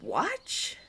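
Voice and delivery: whispered, slow, in disbelief; a slow stunned whisper; hushed whisper. Acted. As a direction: barely breathe it out. Repeating a startling custom.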